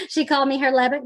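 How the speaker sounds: fast, with a real laugh. Real, not acted. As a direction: laugh through the words. Amused comment after reading.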